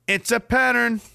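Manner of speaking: high, slow dawning realization; mock conspiracy revelation. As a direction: act out a hammed-up eureka.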